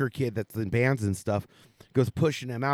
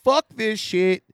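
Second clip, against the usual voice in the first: junior high anger; 4 semitones higher than usual. Retold or imitated. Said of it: "I'm like".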